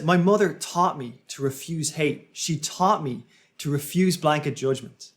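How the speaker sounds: measured quote with firm beats on taught and refuse; emphatic imitation. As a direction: echo a rousing speaker, punching "taught" and "refuse". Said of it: "So he increases the volume".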